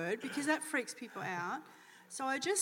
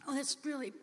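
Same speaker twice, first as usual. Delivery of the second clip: gentle comfort; 6 dB quieter than usual. Retold or imitated. Comforting a grieving stranger.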